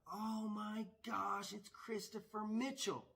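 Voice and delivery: blurted mock yell. Woman spotting him in the casino, imitated excited blurt. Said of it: "we hear her yell my name".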